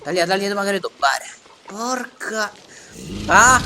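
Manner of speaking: high panicked screams; screaming in terror. Pretend. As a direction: shriek like you're being eaten. Screaming while being eaten in game.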